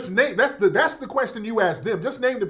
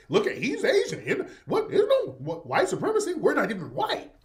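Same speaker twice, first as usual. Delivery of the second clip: mocking; 4 semitones higher than usual. Mocking guests' defence.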